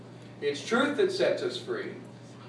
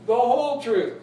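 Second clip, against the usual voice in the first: whole punched high and loud; the whole truth, rising and loud; stress on whole; 7 semitones higher, 5 dB louder than usual. Real, not acted. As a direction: hit the word whole hard. Court oath, emphasis.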